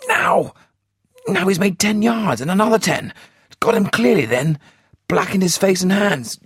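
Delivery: urgent running commentary, building to a yell; a spotter shouting as the escape begins; harsh with excitement. A narrator's reading. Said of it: "voice was harsh with excitement".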